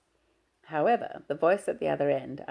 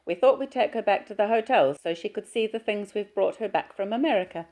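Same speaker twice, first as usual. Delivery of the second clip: gushing, sing-song mother, pitched far higher; mother's voice; 5 semitones higher, 5 dB louder than usual. Acted. Mother fusses over her shy daughter, high and gushing.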